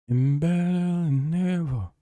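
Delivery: high, slow theatrical boast; slow high comeback boast; high put-on voice. Shown as a demonstration. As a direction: stretch it out in a high showman voice. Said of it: "I'm back".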